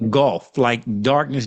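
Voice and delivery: "golf" said Southern, slow, meaning goth; drawled Arkansas "golf"; Arkansas accent. Real, not acted. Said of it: "my Arkansas accent".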